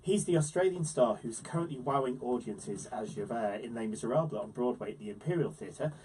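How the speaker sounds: lively scripted guest introduction; presenter's intro. Acted. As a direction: build up the special guest.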